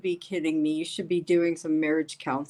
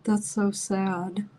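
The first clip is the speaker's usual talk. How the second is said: tearful; slower than usual. Real, not acted. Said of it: "I'm, like, in tears".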